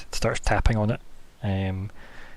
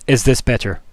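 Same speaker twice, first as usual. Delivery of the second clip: mildly raised telepathic boom; a touch louder, like someone in a big auditorium; loud and intense; 6 dB louder than usual. Acted. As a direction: project it intensely into a listener's head. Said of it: "it's really loud and intense".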